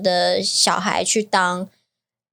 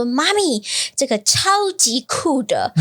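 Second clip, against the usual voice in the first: put-on child's voice; 4 semitones higher, slower than usual. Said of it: "然后他就跟我说".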